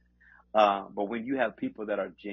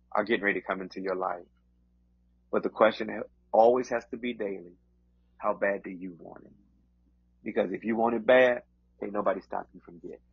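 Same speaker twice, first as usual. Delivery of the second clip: preaching. Acted. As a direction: preach with rising conviction. Delivers encouragement as preaching.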